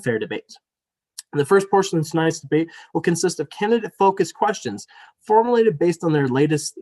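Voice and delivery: scripted public welcome and rules read-out; formal debate moderator. Real, not acted. Reads formal debate opening.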